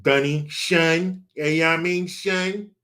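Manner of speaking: lightly put-on New York slang voice; a hint of a New York accent, stretched out; imitating New York dudes. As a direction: mimic a New York buddy's catchphrase. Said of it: "they'd always say".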